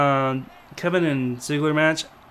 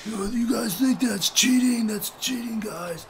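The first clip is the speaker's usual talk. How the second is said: high, drawn-out protest, softening as it goes; mock indignation; 8 semitones higher than usual. Commentator complaining to colleagues about cheating, high-pitched mock indignation. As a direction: imitate a mad commentator in a raised, high voice. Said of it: "was all mad. He's like".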